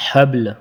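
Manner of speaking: حبل with the ل silenced and a jolt on ب; stopping form; pausal form. Shown as a demonstration. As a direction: stop on حبل. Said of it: "وقفاً میں با اور دا".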